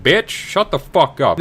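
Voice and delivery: a hammed-up irritated old man; snapping Cain. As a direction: shut her down hard. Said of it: "Cain's like".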